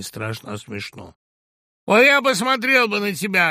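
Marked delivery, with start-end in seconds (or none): 1.8-3.5 high, loud yell. Acted. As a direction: bellow it at him. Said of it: "орал Сазонов".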